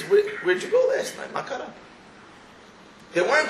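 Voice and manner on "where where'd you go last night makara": high, laughing wife asking where he went; a wife grilling her husband about last night, high mock voice; mock suspicious wife. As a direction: ham up a suspicious wife, much higher.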